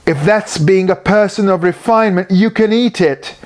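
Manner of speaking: groaned. A narrator's reading. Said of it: "groaned Siegfried Bruckner".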